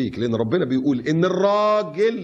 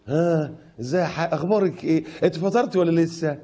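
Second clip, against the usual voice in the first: lilting, slowed mocking flirt; mock flirty colleague; 3 semitones higher than usual. Preacher mimicking a man chatting up a female coworker, lightly flirty. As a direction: play the sweet-talking coworker.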